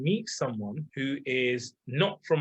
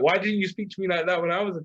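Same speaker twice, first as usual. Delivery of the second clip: incredulous question; 4 semitones higher than usual. Retold or imitated. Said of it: "I'm like".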